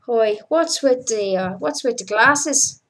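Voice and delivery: lightly mimicked Irish supervisor; Irish accent. Supervisor questioning crew member about glasses, mock Irish accent. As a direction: put on a slight Irish accent. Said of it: "That's my Irish accent".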